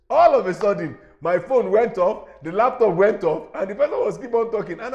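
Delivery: loud, emphatic recounting of a mishap; animated storytelling. Real, not acted. Host recounting his devices suddenly going off, loud and animated. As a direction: tell it loudly, hitting each failure hard.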